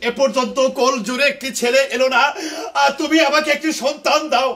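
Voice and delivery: lightly voiced jatra wife's lament; melodramatic folk theatre. Shown as a demonstration. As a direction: plead to the husband, stagey. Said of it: "এটা হলো যাত্রার dialogue".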